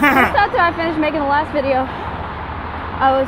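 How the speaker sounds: breathless from walking uphill; puffing between words while walking; out of breath. Real, not acted. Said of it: "sorry, I gotta catch my breath".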